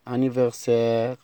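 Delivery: anniversaire again drawn out very slowly; slow repeat. Shown as a demonstration. Teacher repeats anniversaire slowly for pupils. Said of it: "يعني عيد ميلاد".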